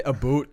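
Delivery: "A boot" said as Canadian "aboot"; Canadian about. Shown as a demonstration. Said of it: "they say".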